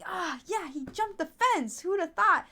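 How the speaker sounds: high-pitched imitation of a woman replying; imitated dog owner. Dog owner answering the finder, high imitated voice. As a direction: act out the owner, voice lifted high.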